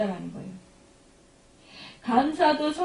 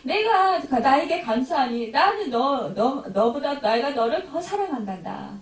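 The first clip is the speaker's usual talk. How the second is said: tender voice of God; 3 semitones higher than usual. Retold or imitated. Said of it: "하나님께서 이렇게 사랑하시고".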